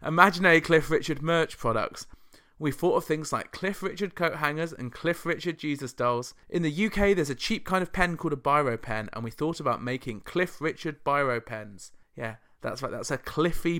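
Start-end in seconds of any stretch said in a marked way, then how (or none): 0.0-11.9 lightly put-on Scottish accent; a wobbly attempt at Scottish. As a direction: quote the band in a mild mock Scottish voice. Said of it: "that was a Scottish accent".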